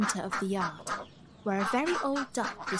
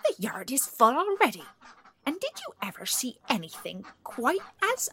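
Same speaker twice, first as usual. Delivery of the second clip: annoyed duck; 3 semitones higher, 4 dB louder than usual. A narrator's reading. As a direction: huff indignantly as a put-out duck, building toward the threat. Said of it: "feeling annoyed, and one duck in particular said".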